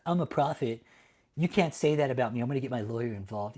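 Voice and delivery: lampoon a self-important prophet; a hint of a pompous preacher; mocking prophet. Mocks prophets suing.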